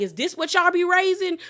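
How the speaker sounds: high, loud scandalized question; shocked church member, high loud outrage; appalled churchgoer. Retold or imitated. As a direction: gasp it out like a shocked parishioner. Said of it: "I would be like".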